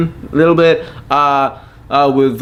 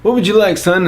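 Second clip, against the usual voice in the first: lightly voiced Santa; 3 semitones higher than usual. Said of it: "So he would tell me".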